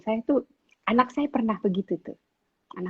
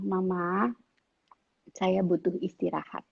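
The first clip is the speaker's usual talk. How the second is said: politely; 6 dB quieter than usual. Retold or imitated. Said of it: "Ngomongnya tapi baik-baik".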